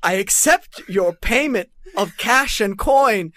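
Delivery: slow rhyming storybook narration; Grinch narrator rhyme. Acted. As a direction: recite slowly like a Seuss narrator. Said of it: "narrator from How the Grinch Stole Christmas".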